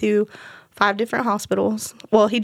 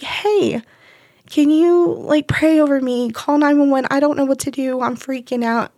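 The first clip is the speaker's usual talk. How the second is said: frightened plea; 4 semitones higher than usual. Retold or imitated. Wakes husband, begs for help.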